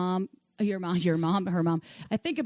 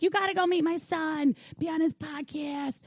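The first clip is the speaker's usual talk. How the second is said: higher mom voice, slowing on the podcast part; lightly higher imitated mom, slow finish; imitating his mom again; 7 semitones higher than usual. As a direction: coax like a doting mother, drawn out at the end. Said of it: "she's like".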